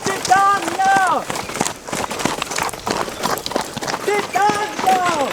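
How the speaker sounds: calling out. Acted. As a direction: call her name into the distance. Calling for a distant friend. (gedehnt in die Ferne rufen)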